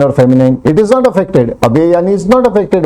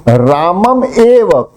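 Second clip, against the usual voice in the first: एव punched, slower; stress on एव; 4 semitones higher, slower than usual. Shown as a demonstration. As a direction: lean hard on एव to mean only. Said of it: "Now I am telling him". (एव पर ज़ोर)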